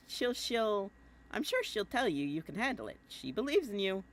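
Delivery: a hint of a boyish brag; Jake voice. Jake's letter read to John, lightly voiced Jake. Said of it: "I keep doing my Jake voice".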